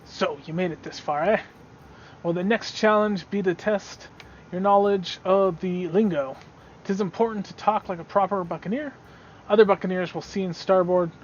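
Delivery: a hint of a salty buccaneer testing a newcomer; pirate challenger. Pirate tests a newcomer's knowledge of the lingo, lightly voiced buccaneer.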